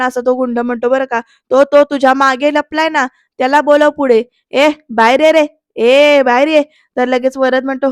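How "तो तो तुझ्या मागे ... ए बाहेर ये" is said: mildly acted shouting at someone; mock thug bossiness. Thug orders the hiding man out, mildly acted shouting. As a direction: call them out with moderate force. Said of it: "अंगावर ओरडतायत".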